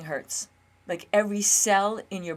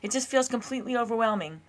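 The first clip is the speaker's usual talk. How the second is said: higher, overwhelmed pleading; a burst of loud panic at the start, then dread; panicked refusal; 5 semitones higher, 6 dB louder than usual. Retold or imitated. Her nervous system dreading an hour of pain, higher panicked pleading. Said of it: "my nervous system goes".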